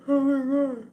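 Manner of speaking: words stretched by a yawn. Real, not acted. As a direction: say it mid-yawn. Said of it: "I don't know why I keep yawning".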